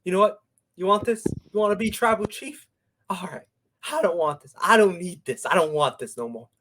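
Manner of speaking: lightly acted emotional outburst; Roman Reigns. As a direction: imitate someone getting worked up and giving in, mildly. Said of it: "then he started getting emotional".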